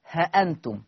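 ها أنتم with a short ha, no alif; alif dropped. Shown as a demonstration. Teacher reviews the first reading for students. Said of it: "بحذف الألف هكذا".

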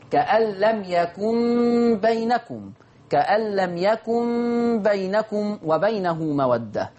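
كأن لم يكن بينكم read slowly and evenly; تلاوة بطيئة بالياء; slow recitation with ya. Shown as a demonstration. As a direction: recite it unhurried, clear ya. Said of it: "فقرأ بياء التذكير".

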